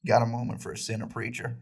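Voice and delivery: lightly put-on Southern accent; a hint of a small-town Southern boy; Tom Holland impression. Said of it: "Tom Holland impression".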